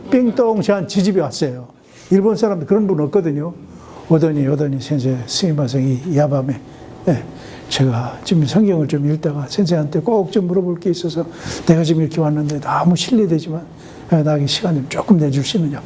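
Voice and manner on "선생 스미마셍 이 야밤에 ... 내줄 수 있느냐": lower, hushed polite visitor; a father humbly asking the pastor late at night; lightly voiced older Japanese man, low and apologetic.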